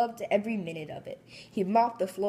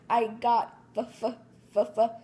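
crying; 2 semitones higher than usual. Acted. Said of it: "SpongeBob cried".

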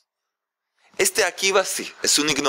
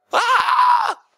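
a sudden, very high, loud gasp of horror; father hearing his daughter's choice, crying out in very high shock; 4 dB louder than usual. Acted. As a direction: shriek as if struck. Father hears the name Akiva.

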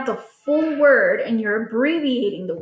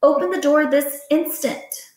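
urgent command; 4 semitones higher than usual. Shown as a demonstration. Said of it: "something more urgent and you're using a lot more emotion".

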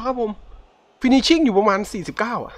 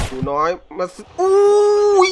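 high, loud and very slow, stretching the words out; real hopeful coaxing; drawn-out excited plea; 12 semitones higher, 6 dB louder, much slower than usual. Real, not acted. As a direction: pull the shot in with your voice. Willing the young shooter on.

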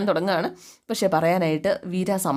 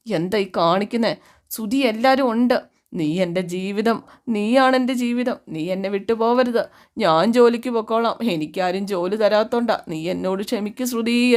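mock drunken pleading; 2 semitones higher, slower than usual. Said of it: "കെട്ടിപ്പിടിച്ച് കരയുക".

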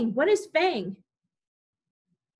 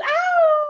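high loud howl; wolf howl; 9 dB louder than usual. Acted. Teacher howling as the camp dogs. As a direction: let out a full wolf howl.

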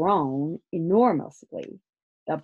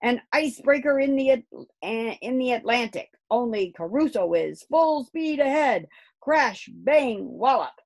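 put-on high, loud boyish commentary; excited shout; 7 semitones higher, 7 dB louder than usual. A narrator's reading. Angus running round the pond playing ship, excited shouting. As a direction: call it out like an action scene. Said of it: "shouted Angus".

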